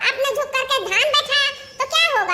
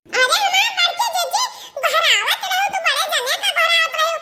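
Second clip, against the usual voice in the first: higher shouting with a laugh; 4 semitones higher than usual. Acted. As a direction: call out to the big sister. Calling big sister. (बड़की जीजी को ज़ोर से हँसते हुए पुकारना)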